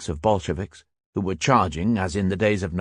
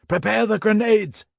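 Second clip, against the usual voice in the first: shouted order; 13 semitones higher than usual. A narrator's reading. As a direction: bark the order over the guns. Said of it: "shouted the Stabs".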